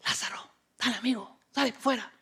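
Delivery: soft whispered coaxing; Jesus could have just whispered to Lazarus. Pretend. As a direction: whisper it gently to a friend. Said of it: "Jesús hubiera podido decir".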